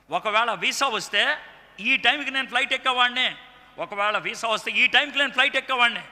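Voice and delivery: building to a high, loud outpouring; retold agitated realization. A friend on the phone realizing he'd have missed his father's death, building agitation. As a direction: pour it out with mounting intensity. Retelling a friend's near-miss with rising emotion.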